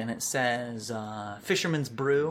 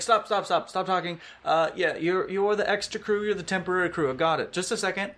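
higher, louder, brusque interruption; impatient cutoff; 6 semitones higher, 3 dB louder, faster than usual. Acted. Sailor woman cutting off the newcomer, impatient and louder. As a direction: stop him mid-sentence, fed up.

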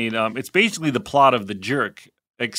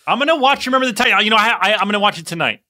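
excited promise; 5 semitones higher, 3 dB louder, faster than usual. Real, not acted. Promising after being teased.

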